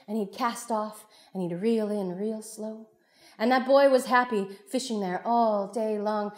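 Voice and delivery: animated oral storytelling; lively storyteller narration. Acted. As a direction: draw listeners into the tale. Tells story to audience.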